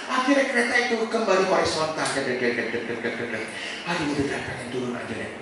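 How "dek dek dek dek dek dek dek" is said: quick repeated dek-dek ticking; imitated track clatter. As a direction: voice coaster wheels clacking along. Menirukan bunyi kereta berjalan. (menirukan bunyi roda kereta)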